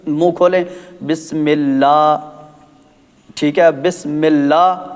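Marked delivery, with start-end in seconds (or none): 1.1-2.2 slow Bismillah with long drawn Allah; slow drawn recitation of بسم اللہ; demo reading. Shown as a demonstration. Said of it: "یہ مجہول ہے". 3.8-4.9 slow Bismillah with long drawn Allah; slow drawn recitation of بسم اللہ; demo reading. Shown as a demonstration. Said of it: "یہ مجہول ہے".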